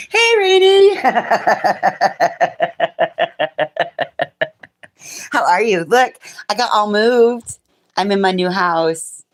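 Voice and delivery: calling out to Rainey, high and thrilled; excited greeting. Real, not acted.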